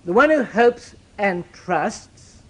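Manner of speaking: slow right down on "who"; patient, heavy restatement. Shown as a demonstration. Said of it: "let's be clear about this".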